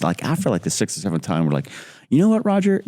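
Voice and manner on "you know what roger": exasperated. Retold or imitated. Giving up warning Roger.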